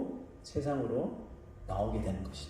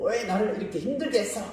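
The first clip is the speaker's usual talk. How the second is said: higher-pitched pretend scolding; mock-angry mother; 6 semitones higher, faster than usual. Imagined mother blaming her newborn for the pain, mock-angry. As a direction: play at a mother's reproach, half in jest. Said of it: "화를 내는 엄마는".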